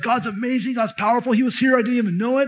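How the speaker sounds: a hint of Jacob's wonder breaking through; awed Jacob. Jacob waking from the dream, lightly voiced awe. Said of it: "He's like".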